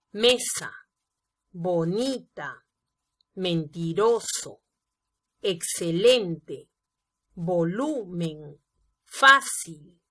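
"bonita, excelente, volumen" slowly, stretching NI, LEN, LU; stress on penultimate syllable. Shown as a demonstration. Teacher lists llanas for students, stressing the next-to-last syllable, as in "mesa". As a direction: isolate each word and lean on the next-to-last syllable, as in "fácil". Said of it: "acento en la penúltima sílaba".

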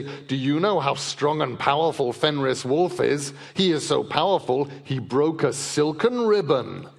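a hint of mock-awed onlookers; mocking crowd voice. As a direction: scoff at the praise he'd get. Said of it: "That people will gather together and say".

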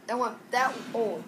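choking on mustard; coughing through the words. Real, not acted. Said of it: "that went down the wrong pipe".

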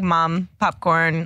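"mom, popcorn" said slowly in a Boston accent; Boston accent words. Shown as a demonstration. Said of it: "we say, like".

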